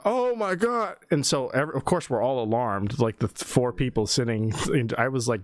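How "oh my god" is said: high rattled gasp; high shaken oh my God; shaken coworker. Retold or imitated. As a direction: breathe it out like you're still shaken. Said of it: "then he comes back in".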